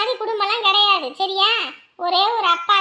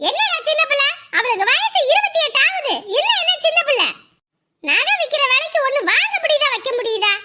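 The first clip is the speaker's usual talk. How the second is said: angry retort; 4 semitones higher than usual. Acted. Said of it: "கோபப்படாம விடுமா".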